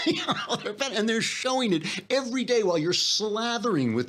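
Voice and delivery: laughing. Real, not acted. Laughs mid-rant.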